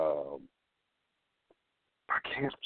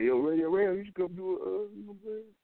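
imitating a caller; 12 semitones higher than usual. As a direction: do a hyped-up caller asking a favor. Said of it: "Motherfuckers should just hit me like".

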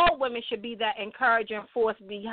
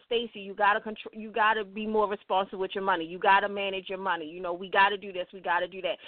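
nicely told; 6 semitones lower, 4 dB quieter than usual. Retold or imitated. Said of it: "he can tell me nicely".

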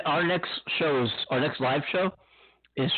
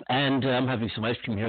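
chewing while talking. Real, not acted. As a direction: mouth full of ice cream. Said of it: "excuse me if you hear me chomping away".

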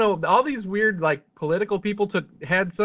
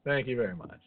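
lounge comic; 6 semitones lower, 8 dB quieter than usual. Pretend. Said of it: "I'll be here every Friday and Saturday night".

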